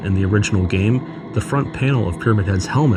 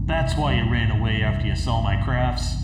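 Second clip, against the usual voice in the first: taunting menacing cosplayer speaking softly and higher, dragging some words out; mocking villain monologue; 3 semitones higher, 5 dB quieter than usual. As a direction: lean in close and taunt James like a game villain, with a breathy creepy laugh. Parody villain monologue to James.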